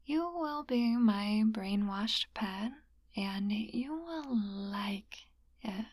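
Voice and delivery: slow commanding whisper; mesmerizing. Acted.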